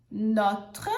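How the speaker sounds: notre said slowly, French r dropped; teacher models notre; French pronunciation. Shown as a demonstration. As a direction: say notre like "not". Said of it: "a gente usa o notre".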